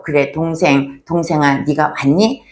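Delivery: a loving elder brother welcoming his younger brother home, tender; welcoming older brother. Pretend. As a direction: take the lost brother in kindly. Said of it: "우리가 이렇게 말해야 된다".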